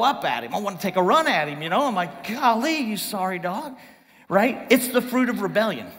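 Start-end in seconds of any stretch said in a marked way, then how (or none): 2.3-3.8 mildly worked-up scolding; a touch of exasperated indignation; incensed. Acted. Preacher wanting to take a run at Jonah, mildly incensed. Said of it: "you get incensed".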